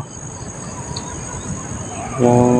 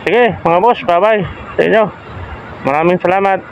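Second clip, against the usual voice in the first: lisping through a gap in the teeth; missing front teeth. Real, not acted. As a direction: talk like a tooth was just pulled. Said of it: "yung bagong bunot ang ngipin ko, ah, bungal ako".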